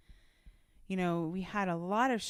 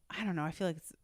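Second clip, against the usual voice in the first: aside whisper; 2 semitones lower, 5 dB quieter, much faster than usual. Real, not acted. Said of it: "unvoiced whisper".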